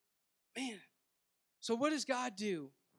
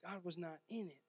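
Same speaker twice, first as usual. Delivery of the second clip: much softer repeat of "God was not in it"; quiet echo; 3 semitones lower, 8 dB quieter than usual. Shown as a demonstration. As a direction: drop to a near hush to let it land. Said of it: "but yet it specifies".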